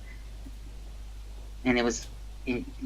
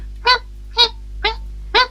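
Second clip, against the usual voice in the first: rat squeak. Retold or imitated. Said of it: "The guy make a sound".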